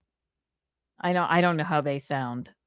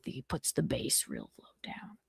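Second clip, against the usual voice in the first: vocal fry; 5 semitones lower, 14 dB quieter than usual. Retold or imitated. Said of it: "he's got a vocal fry".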